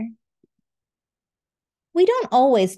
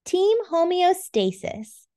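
cheer; 8 semitones higher than usual. Acted. Characters cheer together.

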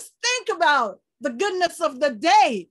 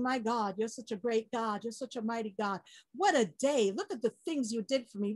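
hushed praise; 3 semitones lower, 6 dB quieter than usual. Retold or imitated. Imagined quiet bedtime prayer.

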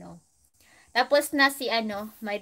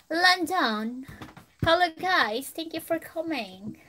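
higher, playful London accent; mock London accent; 6 semitones higher than usual. Shown as a demonstration. Streamer greeting viewers as a Londoner, in a mock London accent. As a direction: put on an exaggerated London accent. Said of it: "Ano daw yung accent na yun?".

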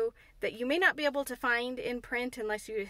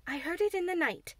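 Mary; 7 semitones higher than usual. Acted. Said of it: "Mary went on".

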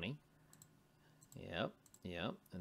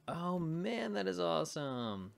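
delighted; 9 semitones higher, 7 dB louder than usual. Real, not acted. Tutor to viewers, totals tie out: delighted exclaim. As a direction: savour the win, genuinely pleased.

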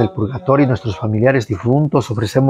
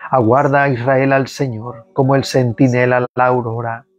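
measured liturgical reading of the psalm; psalm recitation. Acted. Prayer leader leading online faithful in psalm, liturgical reading. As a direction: lead the congregation through the psalm.

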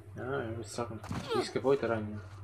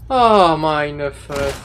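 gedehnt genervt; 4 dB louder, much slower than usual. Real, not acted. Sehr langsam gedehnt.

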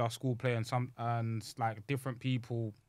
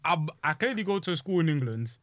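raised, higher exasperated voice; indignant retort; 6 semitones higher, 7 dB louder than usual. Retold or imitated. Young actor retorting to the old guy, loudly indignant. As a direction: spell out the obvious, loud and affronted.

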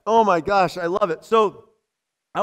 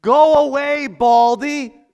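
a loud, higher taunting yell at the bald man; jeering yell; 4 semitones higher, 6 dB louder, slower than usual. Retold or imitated. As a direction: taunt him like a mocking boy. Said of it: "they start yelling at him".

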